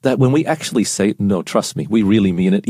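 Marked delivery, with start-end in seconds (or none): 1.2-2.7 low, understated reassurance; unconvincing sincerity. Acted. Proud man reassuring his lady after an apology, low and understated. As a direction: insist you mean it without sounding it, pitched down. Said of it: "doesn't sound like we mean it".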